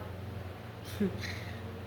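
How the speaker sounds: quiet, breathy little laugh; soft chuckle. Real, not acted. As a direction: chuckle under your breath. Amused at own joke.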